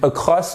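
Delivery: across with rounded o, rising; wrong across. Shown as a demonstration. Teacher showing a learner's slip, wrong across. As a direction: round the o of "across" and leave it hanging. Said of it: "on a l'impression que vous dites".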